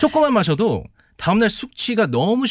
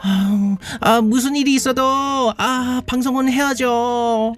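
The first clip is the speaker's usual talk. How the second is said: hungover; 5 semitones higher, slower than usual. Acted. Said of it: "말도 지금 제대로 못하면서".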